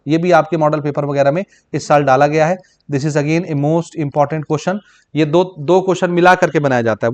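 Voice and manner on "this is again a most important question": slow, word-by-word dictation of the answer; measured note-taking pace. Shown as a demonstration. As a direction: dictate it slowly so students can write. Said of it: "dictating for notes".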